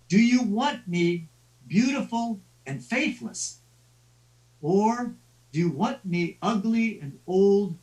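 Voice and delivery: a hint of an old woman's voice, slow on the second question; lightly voiced old woman. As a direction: lightly play the old woman, teasing out the choice. Ugly old woman offers a choice.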